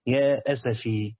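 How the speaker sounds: slow, low يا أسفي; slow explanatory. Shown as a demonstration. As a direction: spell out يا أسفي as the original form. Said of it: "كأن أصلها إيه؟".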